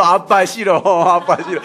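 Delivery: lightly mimicked whiny child; child's refusal. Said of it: "저녁에는 아빠가 싫고". (싫다고 칭얼대는 아이 흉내)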